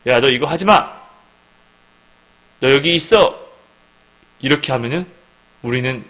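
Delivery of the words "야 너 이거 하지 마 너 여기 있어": louder, bossy order like to a dog; stern command. Acted. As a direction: order them to stay put. God voiced ordering his people.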